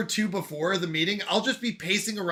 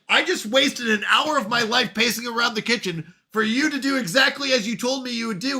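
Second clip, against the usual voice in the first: higher, exasperated retelling; mock exasperation; 4 semitones higher than usual. Anxious employee after a harmless check-in, mock exasperated. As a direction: complain as if to the boss.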